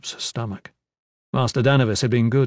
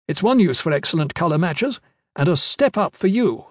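put-on old woman; 5 semitones higher than usual. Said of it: "Mistress Varidos continues".

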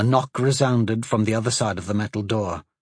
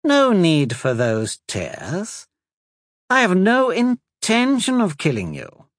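soothing; 8 semitones higher, 3 dB louder than usual. A narrator's reading. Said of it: "said in a soothing voice".

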